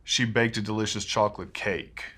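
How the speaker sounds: CHOCOLATE eased, stress spread across to CAKE; shifted phrase stress. Shown as a demonstration. Teacher showing stress in a collocation, CHOCOLATE lighter before CAKE. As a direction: spread the beats, don't punch CHOCOLATE. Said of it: "change that stress if we're saying it in a larger collocation".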